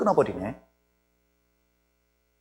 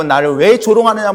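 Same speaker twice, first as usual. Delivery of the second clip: raised, loud, indignant challenge; imitated anger; 6 semitones higher, 8 dB louder than usual. Preacher voices Delilah protesting his mockery, angrily. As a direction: demand it like a mocked lover. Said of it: "막 화내고".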